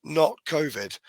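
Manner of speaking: hoarse from a cold; croaky, cold-roughened voice. Real, not acted. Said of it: "but I sound like it".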